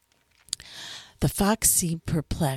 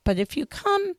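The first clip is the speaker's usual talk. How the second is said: higher fox voice, earnest and pleading; fox character voice; 10 semitones higher than usual. A narrator's reading. Fox explains to the little prince what taming means, higher and earnest.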